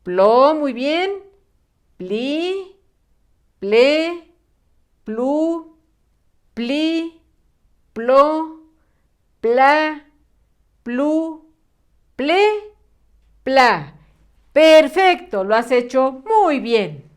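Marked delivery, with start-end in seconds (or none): 0.0-0.5 "Plo" said as one isolated syllable, firmly; repaso de sílaba. Shown as a demonstration. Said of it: "primero tú y luego yo". 2.0-13.9 "pli, ple, plu" each alone, pitched higher, with pauses between; syllable drill. Shown as a demonstration. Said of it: "primero tú y luego yo".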